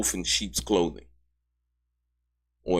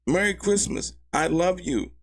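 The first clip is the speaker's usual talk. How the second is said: much higher, mocking re-read of the note; mocking singsong; 9 semitones higher than usual. Commentator mocking Mia's note, much higher and mocking. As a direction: sneer it up high like a sappy card.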